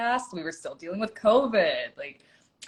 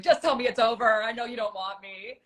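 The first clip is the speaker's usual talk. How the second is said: mildly panicked pleading, acted out; nervous wreck; 4 semitones higher than usual. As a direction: plead like someone expecting rejection, starting high. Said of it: "I was a nervous wreck".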